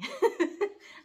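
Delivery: high, loud choked sob; short burst of crying held back; tearful sob. Real, not acted. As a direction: let a real sob escape. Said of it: "I don't wanna cry on screen".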